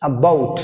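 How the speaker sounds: "about" with weight on "bout"; stress on second syllable. Shown as a demonstration. Teacher showing where stress falls in "about", stressed second syllable. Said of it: "on the second syllable".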